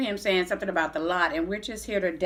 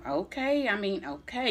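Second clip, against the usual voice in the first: hesitant okay; 3 semitones higher, 4 dB quieter than usual. Retold or imitated. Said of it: "in other words, that okay, I read all off into that".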